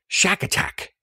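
whispered monkey squeak, no voice; baby monkey chatter. Retold or imitated. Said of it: "said the bundle".

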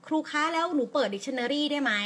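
a hint of an eager student asking permission; imitating a student. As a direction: lightly play a child asking the teacher. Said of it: "หลายๆคนอาจจะรู้สึกว่า".

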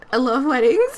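hammed-up teary voice breaking into laughter; badly faked weepy wedding guest; mock crying. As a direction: pretend to cry, half laughing. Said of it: "Edmund's probably crying".

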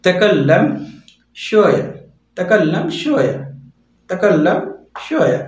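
teacher drilling Arabic words; careful Arabic phrase. Shown as a demonstration. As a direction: model तकल्लम then शोया, falling at the end. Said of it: "दूसरी तरीके से भी बोल सकते हैं".

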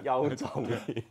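要用重音 slow and weighted on each syllable; slow mock-emphatic 要用重音; heavy stress. Shown as a demonstration. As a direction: lean hard into every word of 要用重音.

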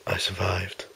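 hushed inner voice; whispered thought. Acted. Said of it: "talking in my head right now".

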